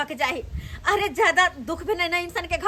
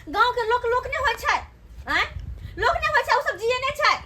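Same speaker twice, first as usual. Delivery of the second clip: higher-pitched, offended retort; indignant protest; 4 semitones higher than usual. Acted. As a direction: protest the insult in a raised pitch. Host defends village people. (आहत भऽ तमसायल विरोध)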